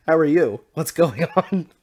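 amused greeting. Acted. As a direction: hail a friend while cracking up. Repeats greeting between laughs.

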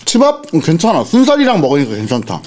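eating between words; talking while chewing. Real, not acted. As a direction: mouth partly full. Seen 3: mouth moving with food after bite; rice only being scooped.

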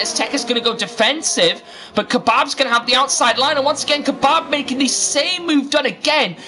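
lightly excited race call; live racing play-by-play. Acted. Commentator calls Kebab's outside move on Tekkas, excited play-by-play. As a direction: follow the move with lively commentary.

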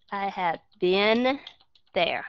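"I have been there" slowly, with a pause before "there"; slow model sentence. Shown as a demonstration. Teacher slowly repeating the model sentence. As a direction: break it up slowly so students copy it. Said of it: "Chúng ta đọc là been".

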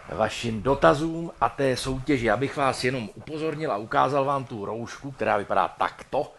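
ordinary delivery

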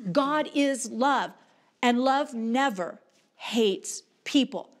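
very slow, word-by-word declaration; emphatic preaching. Real, not acted. Preacher making it really clear to the congregation, emphatic preaching. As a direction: preach it with weighty pauses between words.

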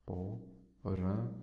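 "temporânea" slow and soft, broken into syllables with long gaps. Shown as a demonstration. Teacher dividing contemporânea for students, "temporânea" in slow, separate syllables. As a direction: sound out "temporânea" one syllable at a time, softly. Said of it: "aí você separa em si".

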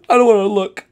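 high, squeaky refusal; squeamish character. Acted. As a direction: shrink away in a small high voice. Character dreads watching the deed.

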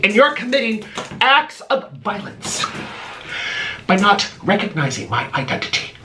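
lightly hammed-up rant at a critic; scolding Candace with faked self-righteousness; mock indignant influencer. Viewer rant at Candace, mock indignant.

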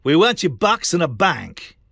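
high, slow put-on scammer voice; mock scammer voice. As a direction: sneer it as the scam site talking. Mocking the scammers' voice.

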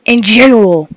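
loud, high and slow; excited. Real, not acted. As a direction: shout the recap still shaken. Recapping scare excitedly.

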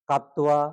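কাত্তোয়া with a doubled t and a wa ending; wrong pronunciation demo. Shown as a demonstration. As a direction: show the wrong form কাত্তোয়া. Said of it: "কাত্তোয়া হলো না". (ভুল উচ্চারণ কাত্তোয়া)

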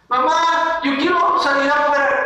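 put-on high-pitched child begging a parent; imitated child's plea; pleading child. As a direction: play a kid asking to go out. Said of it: "¿Se acuerdan qué nos decía mamá?".

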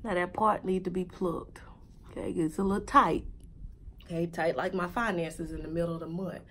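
hushed, low whisper to the camera. Real, not acted. Vlogger checking a tight new wig, whispering. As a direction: drop to a soft, low whisper. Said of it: "Lord, why am I whispering?".

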